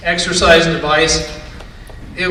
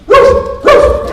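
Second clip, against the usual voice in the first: high, loud dog bark; Skipper; 6 dB louder than usual. Acted. Dog answering his owner's question in a bar, high barking. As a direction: bark it out in short, high bursts. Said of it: "And he goes".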